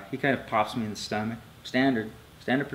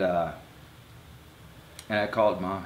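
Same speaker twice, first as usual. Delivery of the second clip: usual speaking voice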